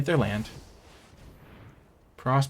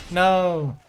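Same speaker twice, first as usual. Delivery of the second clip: a high pained no; dismayed no; 8 semitones higher, 6 dB louder than usual. Real, not acted. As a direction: groan out the no in dismay. Almost winning, then losing.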